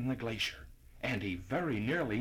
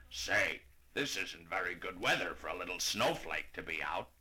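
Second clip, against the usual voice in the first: put-on lower, concerned old horse voice; worried old horse; 7 semitones lower than usual. A narrator's reading. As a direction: fret over the little one. Irving worries about Gus.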